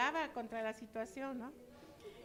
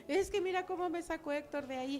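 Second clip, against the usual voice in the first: raised pleading complaint to God, a touch tearful; 4 semitones higher than usual. Retold or imitated. Praying to God about leaving Elohim, a touch tearful. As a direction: complain to God about Héctor, half crying. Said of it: "así llorando al Señor yo le lloraba".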